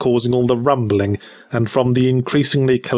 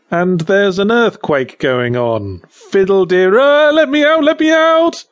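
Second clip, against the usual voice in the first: rising to a high frantic shriek; panicked yelling; 8 semitones higher, 4 dB louder than usual. Acted. Trapped in the coffin, begging to be let out, panicked shriek. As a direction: pound the lid, shrieking to be let out.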